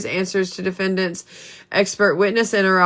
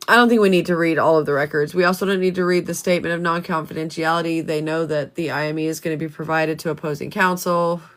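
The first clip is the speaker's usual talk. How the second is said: short of breath, reading on; breathless, pushing through the words; 2 semitones lower than usual. Real, not acted. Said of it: "Hang on, let me catch my breath".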